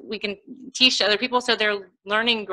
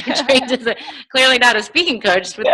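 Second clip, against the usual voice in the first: laughing; 3 semitones higher than usual. Real, not acted. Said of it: "gosh, I'm so sorry".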